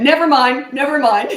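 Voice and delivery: put-on a caught kid quickly taking it back; backing down fast. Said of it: "And he went".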